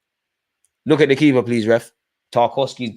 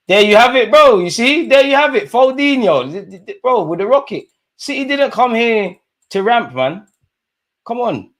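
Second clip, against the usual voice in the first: high, pitched-up fan exclamation; excited fan outburst; 11 semitones higher, 3 dB louder than usual. Real, not acted. Fan reacting to a City goal.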